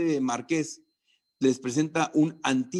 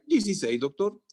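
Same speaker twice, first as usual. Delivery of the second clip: student answering; 5 semitones higher than usual. Acted.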